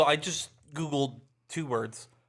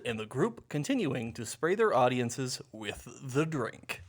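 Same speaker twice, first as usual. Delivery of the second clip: announcer voice. Shown as a demonstration. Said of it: "I'll do this in my announcer voice".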